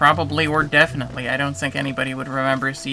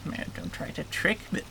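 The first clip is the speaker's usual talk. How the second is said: hushed, breath-only creature warning; game creature voice; 2 semitones higher, 8 dB quieter than usual. Acted. Game creature warning a visitor against tricks, whispered creature voice. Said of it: "doing that voice".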